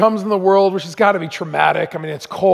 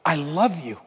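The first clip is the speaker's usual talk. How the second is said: gentle retold love; 4 semitones lower, 6 dB quieter than usual. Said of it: "this voice says".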